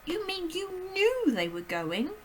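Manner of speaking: put-on high, loud, slow anguished child; high distressed little girl; breathless girl's cry. A narrator's reading. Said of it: "Matilda cried".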